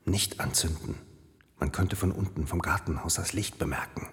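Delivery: low hushed whisper. Acted. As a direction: whisper so nobody below hears. Sneaking up dark stairs quietly.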